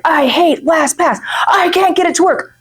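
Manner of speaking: hammed-up frustrated whine; mock whiny Josh. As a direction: whine like a fed-up coworker. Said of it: "Josh is like".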